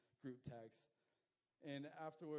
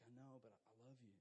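soft, low and tender; tender reassurance; 3 semitones lower, 9 dB quieter, faster than usual. Acted. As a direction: gently reassure someone who feels ashamed. Voicing God answering someone ashamed.

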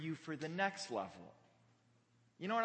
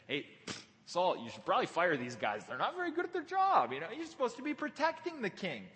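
mocking; 2 semitones higher than usual. David taunts Saul about his sleeping guards, mocking. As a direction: jeer lightly at the useless guards. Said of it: "he's just mocking him".

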